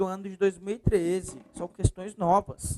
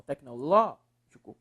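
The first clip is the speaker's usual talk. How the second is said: "Tecnológico" lower and slower, LÓ drawn out; stress on LÓ; 5 semitones lower, slower than usual. Shown as a demonstration. Teacher answering which syllable is strongest, stressed LÓ. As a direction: lean on LÓ in "Tecnológico". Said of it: "É o ló, professor".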